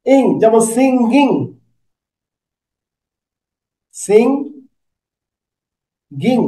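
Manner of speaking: সিঙ্গিং with the back of the tongue up, humming through the nose; nasal ng demo; ng sound demo. Shown as a demonstration. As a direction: hold the ইং in the nose. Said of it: "জিহ্বাটার পিছনে অংশটা লেগে".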